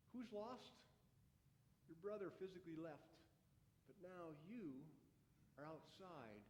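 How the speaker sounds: put-on a father gently pleading with his angry older son; gentle pleading father. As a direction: coax the son back in, tenderly. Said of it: "my father kept pleading with me and saying".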